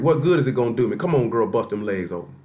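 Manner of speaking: mock the careless attitude under the breath; mocking careless sinner. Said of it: "That's how some of y'all operate".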